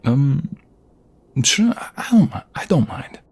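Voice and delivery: put-on startled boyfriend stammering agreement; flustered. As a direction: caught off guard, trip over it. Flustered by the request.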